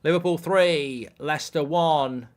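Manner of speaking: mock vidiprinter read; score announcement.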